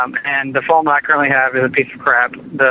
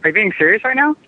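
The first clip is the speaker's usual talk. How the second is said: stunned disbelief; 6 semitones higher than usual. Acted. Customer stunned by rude agent.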